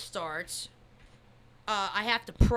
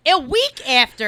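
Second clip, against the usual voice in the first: louder, laughing through it; 4 semitones higher, 9 dB louder than usual. Real, not acted. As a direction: laugh while confirming. Laughing reveal.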